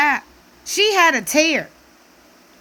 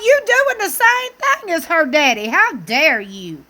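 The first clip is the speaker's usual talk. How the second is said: outraged retort; 4 semitones higher than usual. Retold or imitated. Talking back at Cody on screen, high and indignant. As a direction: call him out hard. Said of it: "I'm like".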